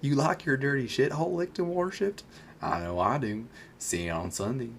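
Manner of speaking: southern accent. Shown as a demonstration. Repeating the come-on for the co-host, southern accent. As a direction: let the southern accent slide downward. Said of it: "do the accent".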